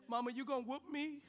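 put-on small pleading kid question; mock timid child asking mom; imitating a frightened kid; acted scared. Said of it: "I was still scared of my mama".

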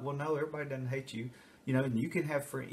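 soft, quick consoling parent; mild reassurance. Retold or imitated. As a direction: hurry to comfort.

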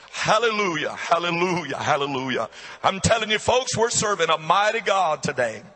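emphatic pulpit praise, falling on each hallelujah; rally the congregation with ringing praise; fervent preaching. Real, not acted.

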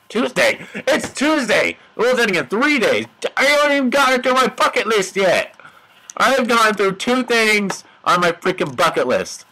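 high, frantic outcry; mock panic. Player with world ending in three days, mock panic. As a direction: realise time is short, voice jumping up.

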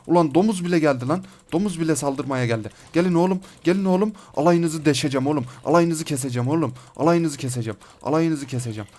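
heated battle threats; excited, aggressive gamer trash talk; worked-up, aggressive. Real, not acted. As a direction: threaten the whole mob in the thick of a fight. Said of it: "Çok heyecanlı, çok agresif bir şey oldu".

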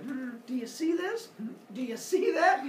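high-pitched, displeased mock questioning; unexcited bride. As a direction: play a bride unhappy with her match. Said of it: "Aphrodite's not too excited about this".

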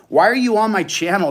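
real burst of rage; angry outburst. Real, not acted. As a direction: yell it at the intruder. Raging at the troll.

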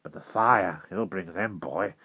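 put-on urgent, fearful old man's warning; alarmed old walker. Old walker warning Will that the fire brings them, alarmed. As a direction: warn the boy in rising alarm.

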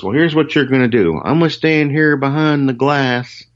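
high mock instructing voice; imitating Chet. Chet instructs the guitarist through the glass, high mock voice. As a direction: lay out the rules like a boss. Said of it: "Chet says".

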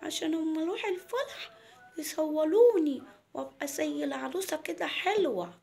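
put-on high, sing-song child voice; little girl Mona. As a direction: draw it out like a small girl showing off to mum. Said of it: "قالت لها". (صوت بنت صغيرة بتتدلع)

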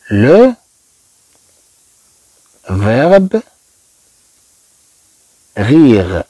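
long pauses between isolated words; one word at a time, very slowly; spaced-out teacher's model for learners; word-by-word dictation. Shown as a demonstration.

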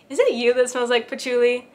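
mock questioning, pitch jumping at the start; teasing family imitation. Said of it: "running joke in my family".

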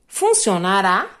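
slow "Funcionará?" rising at the end; teacher stressing the question tune; question intonation. Shown as a demonstration. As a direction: draw out "Funcionará?" and lift the final syllable. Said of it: "dando a entonação de uma pergunta".

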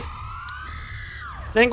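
high, slow frightened wail; running from a monster, wailing in panic; panicked wail. Real, not acted. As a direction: wail it while fleeing. Fleeing monster.

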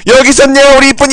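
put-on high, sing-song baby talk; cutesy cooing. Owner finding the cat, cooing in a high pet voice. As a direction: coo at a pet you just found.

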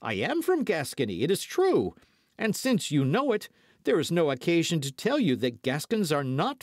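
high-pitched, insistent hot-headed retort; quarrelsome. A narrator's reading. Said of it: "quarrelsome spirit began to speak more loudly".

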